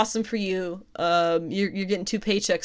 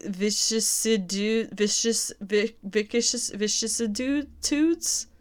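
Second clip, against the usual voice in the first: stumbling over word; 3 semitones higher, much slower than usual. Real, not acted. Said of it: "I swear I have a Bachelor's".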